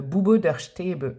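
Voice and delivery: slow, careful German pronunciation; German, carefully sounded out; German accent. Real, not acted. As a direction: read it out in French-accented German. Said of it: "ça me fait réviser mon accent allemand".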